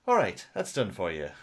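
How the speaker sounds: imitated Irish voice assistant; Irish accent. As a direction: put on a light Irish lilt. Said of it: "male Irish".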